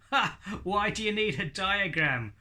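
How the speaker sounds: high, scornful puppet laugh; mocking puppet voice. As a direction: puppet scoffs at the host. Puppet Hadley mocks.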